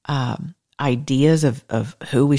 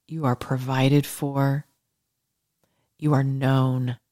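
soothing bedtime blessing. Acted. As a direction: lull them toward sleep.

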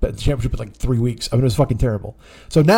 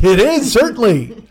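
higher, louder reply; emphatic agreement; 6 semitones higher, 5 dB louder, slower than usual. Retold or imitated. Replying to Ken's puzzled remark, emphatic agreement. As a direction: agree with mock-emphatic lift. Retold reply to baffled friend.

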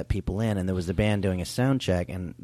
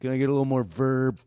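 higher, fussy singer asking; prima donna singer; 4 semitones higher than usual. Retold or imitated. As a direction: play the precious frontman. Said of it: "He goes".

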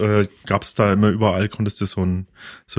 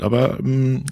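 tasting sound mid-sip; while sipping a drink; 2 semitones higher than usual. Real, not acted. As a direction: hum while savoring a sip. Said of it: "lass mich mal noch mal trinken".

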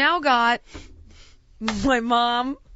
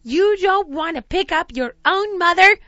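high, loud imitation of offended mother; guilt-trip like a wounded mother; hammed-up maternal indignation; affronted mom; 8 semitones higher, 10 dB louder than usual. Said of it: "She goes".

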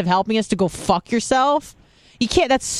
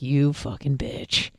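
mock insult; 5 semitones lower, 6 dB quieter, slower than usual. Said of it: "And he's like".

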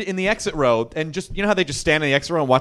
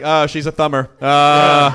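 low cool menace; 3 semitones lower, 5 dB louder, slower than usual. Retold or imitated. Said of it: "You sound like thirties hitman".

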